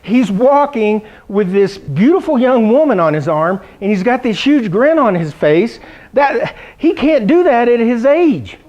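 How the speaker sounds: tut-tut about dad's date, slowly; doctor gossiping about dad, mock-shocked; mock scandalized doctor. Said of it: "He said".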